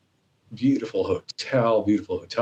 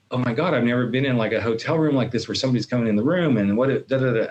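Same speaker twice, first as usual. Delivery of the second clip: quick, slightly raised mock panic; retold freak-out; 4 semitones higher, faster than usual. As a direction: rattle it off like replayed worried thoughts. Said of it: "then I freaked 'cause I'm like".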